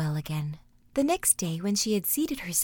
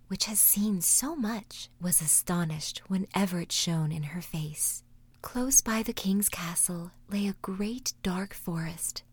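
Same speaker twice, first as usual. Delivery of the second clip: whispered story narration. A narrator's reading. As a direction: whisper the tale like a bedtime story. Whispered fairy tale narration.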